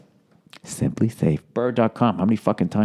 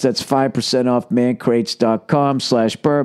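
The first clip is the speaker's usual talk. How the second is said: slow ad read; slower than usual. Shown as a demonstration. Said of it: "ad read, slowed".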